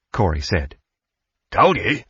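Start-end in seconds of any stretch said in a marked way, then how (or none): 1.5-2.0 smug, higher-pitched I-told-you-so; heavy dose of self-satisfaction; self-satisfied. A narrator's reading. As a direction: gloat a little, pitched up. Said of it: "with a heavy dose of self-satisfaction".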